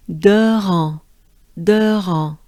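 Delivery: "De ran" projected in French after a breath; syllable drill. Shown as a demonstration. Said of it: "Take a good breath".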